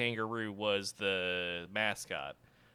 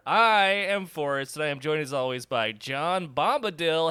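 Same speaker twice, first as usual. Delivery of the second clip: high, loud, stretched-out announcer call; slow, lilting hype-up; showman introduction; 6 semitones higher, 6 dB louder, slower than usual. Pretend. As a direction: introduce the co-host in a playful sing-song. Hammed-up host introduction.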